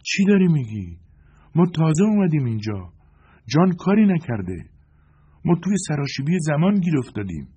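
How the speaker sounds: high, loud angry protest. Acted. Joanna defends John angrily, loud and high. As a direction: snap back in his defence. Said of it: "جوانا با خشم گفت".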